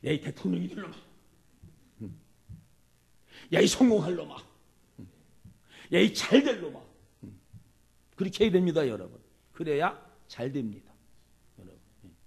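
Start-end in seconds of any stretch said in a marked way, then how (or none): 0.0-6.8 put-on loud cheering blessing to a child; blessing callout. Shown as a demonstration. Parent calling out blessings to a naughty child, loudly. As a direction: call out the blessing with pride. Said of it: "근데 바꿔야 돼".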